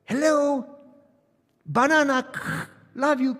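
choppy words cut apart like a bad signal; broken phone call. Wife's call breaking up while he drives, choppy and loud. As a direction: clip each word as if the line keeps dropping.

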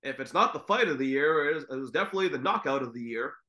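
flat, bored announcer; deadpan commentator read; monotone voice. Retold or imitated. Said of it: "in the most monotone voice".

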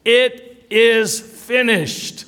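high, drawn-out proclamation; loud cry. Retold or imitated. Preacher voicing Jesus crying out on the cross, loud cry. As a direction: cry it out slowly and high, word by word. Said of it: "he cried out in a loud voice".

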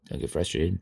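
low, soft self-talk; self-calming. Acted. Speaker calms himself over a bad coloring job, low and soft. Talks himself down in his mind.

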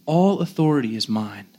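quiet, humble authority; soft, strong confidence. Acted. Preacher as the humble king to his disciples, soft and confident. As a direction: state it softly, sure of your power. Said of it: "more of a soft, strong, confident".

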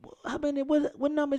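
retold disbelief. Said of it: "I say".

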